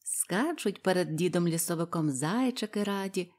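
plain reading voice

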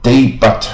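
"debut" read as day-but; spelling pronunciation. Shown as a demonstration. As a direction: sound out the T in "debut". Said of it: "看起来好像".

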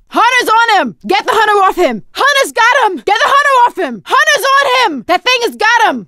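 high, urgent calling out; urgent alarm. Acted. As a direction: yell the alarm to the team. Teammate pinned, calling for help.

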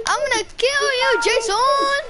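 high-pitched playful threat; hammed-up vow of revenge; mock threat.

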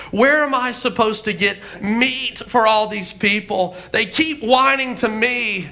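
mildly whining complaint; aggrieved, put-upon plea; Moses. Acted. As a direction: gripe to God, a touch hammed-up. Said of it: "now he's whining to God".

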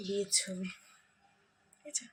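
hushed voice so the sleepers stay asleep; speaking softly. Real, not acted. Showing the house while everyone sleeps, softly hushed. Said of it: "আস্তে আস্তে কথা বলতে হচ্ছে".

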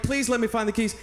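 retold pleading prayer, pitched high; urgent prayer. Hiker praying as he walks the trail, urgently. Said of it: "I felt this tremendous urgency".

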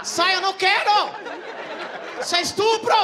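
high, loud panicked protest; mock panicked yell. Comic shouting a guy off him at carnival. Yelling at guy during sex.

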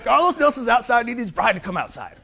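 very high, hammed-up shout; Carlos Nelson. Client summons sleeping consultant, high mock shouting. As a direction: holler it, far above normal pitch. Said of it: "He's like".

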